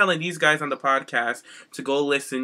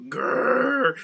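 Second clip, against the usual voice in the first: mock growl. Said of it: "And Sheamus goes".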